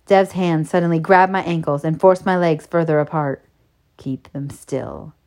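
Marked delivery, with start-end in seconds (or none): 3.9-5.1 low, slow, very soft order; dominant command. A narrator's reading. Narrator voices man ordering her to stay still, commanding. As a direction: order it quietly and deliberately.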